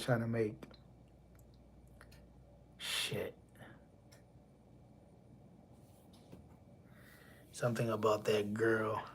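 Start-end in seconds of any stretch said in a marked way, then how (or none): 2.8-9.0 soft whisper, thinking aloud; whispered to self. Real, not acted. Vlogger who lost her train of thought, whispering to herself. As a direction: breathe it under your breath, trying to recall. Forgot point, muttering to self.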